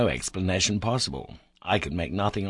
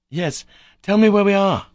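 much higher and louder, urgent plea; impatient and eager; 11 semitones higher, 10 dB louder than usual. A narrator's reading. Narrator urging the boy to answer, impatiently and eagerly. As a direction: press him eagerly for an answer. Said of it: "I added impatiently and eagerly".

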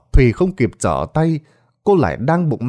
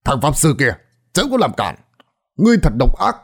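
stern rebuke; 3 semitones higher, faster than usual. Acted. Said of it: "quát lớn".

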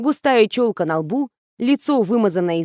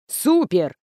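plain reading voice

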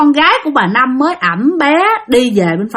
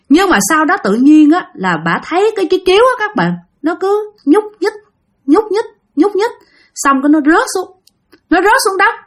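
suspenseful build; 8 semitones higher than usual. A narrator's reading. Suspense, blanket moving by itself.

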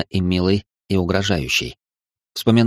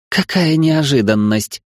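laughing goddess; 6 semitones higher, slower than usual. Acted. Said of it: "рассмеялась Астарта".

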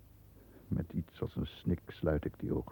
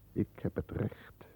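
whisper; 3 semitones higher, 5 dB quieter, slower than usual. Acted. Alone, opening a secret letter.

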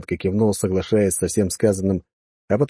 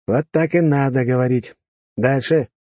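commanding officer; 4 semitones higher than usual. Acted. Officer approves, moves on.

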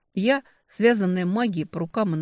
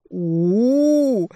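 long, high, loud wailing oooh; suffering howl; 5 semitones higher, 7 dB louder than usual. A narrator's reading. The servant moans in pain in reply, wailing. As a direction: wail in misery. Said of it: "страдальчески раздалось в ответ".

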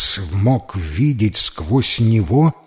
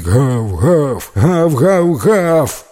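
louder puppy barks, building; barking; 5 semitones higher, 5 dB louder, much slower than usual. A narrator's reading. Max the puppy barks in astonishment. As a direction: bark out of astonishment. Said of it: "начал лаять".

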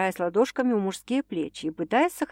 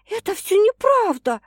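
high, louder resolute denial; firm denial; 13 semitones higher, 6 dB louder than usual. A narrator's reading. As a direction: put your foot down. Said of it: "решительно заявила она".

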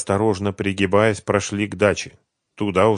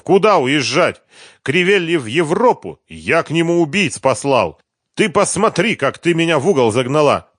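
furious; 8 semitones higher, 6 dB louder than usual. A narrator's reading. Quarrel with his partner.

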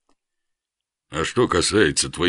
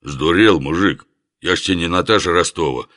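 indignant; 2 semitones higher, 4 dB louder than usual. Acted. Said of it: "искренне возмутился Лев".

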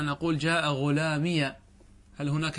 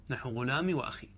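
whispered aside; 5 dB quieter than usual. Real, not acted. Quiet example aside.

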